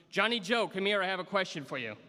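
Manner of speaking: high, loud rough Irish brogue call. Retold or imitated. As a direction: call out like a little Irish Nana in a shaky Irish brogue. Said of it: "imagine this with an Irish brogue".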